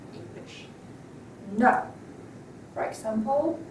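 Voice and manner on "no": "No" loud, short, dropping; firm falling tone. Shown as a demonstration. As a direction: hit "No" hard and let it fall. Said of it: "firm and falling tone".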